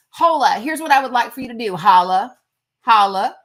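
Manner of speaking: loud holla call-outs. Real, not acted. Calling out to commenters, loud holla. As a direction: shout holla to grab attention. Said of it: "calling out to commenters".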